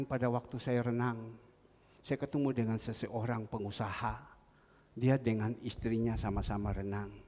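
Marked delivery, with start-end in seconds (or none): none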